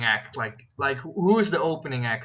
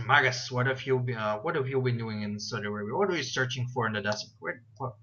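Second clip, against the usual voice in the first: put-on Russian robotic accent; 2 semitones lower, faster than usual. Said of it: "this Russian, small robotic, accent".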